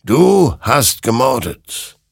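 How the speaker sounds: slow, loud, high accusation; drawn-out, damning verdict; accusing. Acted. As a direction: pass judgement word by word. Creature accuses Hector.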